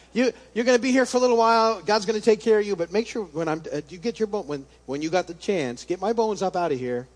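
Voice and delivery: lightly voiced Joseph, quick and urgent; a hint of Joseph begging his brothers, fast; Joseph pleading. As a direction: play the dying Joseph insisting on his bones.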